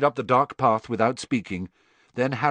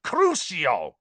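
spell cast; 5 semitones higher, 3 dB louder than usual. A narrator's reading. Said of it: "Harry heard Crumb's voice".

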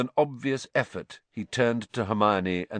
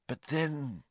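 muttered; 4 semitones higher, 7 dB quieter than usual. A narrator's reading. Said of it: "Lupin muttered".

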